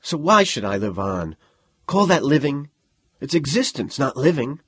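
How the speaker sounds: loud, furious and defiant; furious defiance. Acted. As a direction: throw the words back in defiance. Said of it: "with furious defiance".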